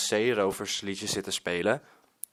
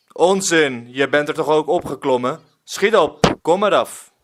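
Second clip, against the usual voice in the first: loud, fast, higher scolding bark; impatient pirate; 3 semitones higher, 10 dB louder than usual. Acted. Pirate Willem orders the boy off the roof, loud impatient scolding. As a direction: hurry him down, no patience left.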